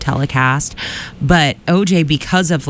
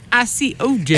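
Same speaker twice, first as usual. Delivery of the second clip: put-on Boston accent; 8 semitones higher than usual. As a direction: echo the prank caller in Boston. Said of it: "a pretend Boston accent".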